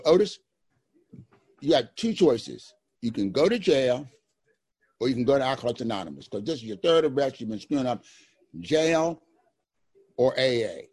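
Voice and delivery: hammed-up stern judge giving an ultimatum; mock court judge, loud; imitating the judge.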